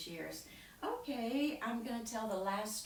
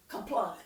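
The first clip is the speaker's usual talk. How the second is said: short daughter's kaplunk; 6 dB louder than usual. Shown as a demonstration. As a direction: drop it like a stone. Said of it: "second daughter is very short".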